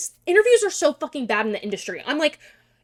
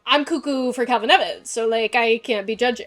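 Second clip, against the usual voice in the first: higher and much louder, laughing; excited gushing; 4 semitones higher, 9 dB louder than usual. Real, not acted. Gushing to viewers about Calvin, excited and loud. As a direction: gush over him giddily.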